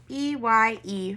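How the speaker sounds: "E Y E" spelled slowly, letter by letter; name each letter slowly; spelling it out. Shown as a demonstration. Teacher spells "E Y E" for first graders, slowly. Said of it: "I'm gonna do eye".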